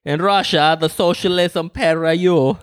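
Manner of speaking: put-on lightly done joking Russian accent; a hint of a mock Russian accent; Borat-style Russian accent. Host twists the topic into a Russian joke in a light mock Russian accent. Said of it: "trying to do a Borat accent".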